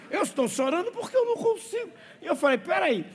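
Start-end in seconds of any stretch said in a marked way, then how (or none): 0.1-1.9 put-on repeats the kid's line very high, quick, through laughter; can hardly get it out for giggling; laughing retelling. Pastor retells the crying boy's words to the church, laughing hard. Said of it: "Ele disse".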